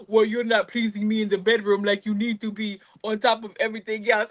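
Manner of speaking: lightly voiced complaining husband; a hint of a whiny husband; mock husband voice. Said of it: "Why you put an accent on it?".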